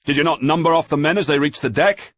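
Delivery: loud, high voices; shouting over the storm. A narrator's reading. Boy and master shouting about the missing man. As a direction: keep it yelled against the gale.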